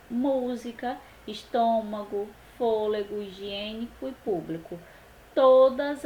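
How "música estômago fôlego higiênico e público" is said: "Música, estômago, fôlego, higiênico e público" with antepenultimate stress; teacher's list "Música, estômago, fôlego, higiênico e público", leaning on each accented syllable; third-last syllable stressed. Shown as a demonstration. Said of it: "sílaba tônica é a antepenúltima".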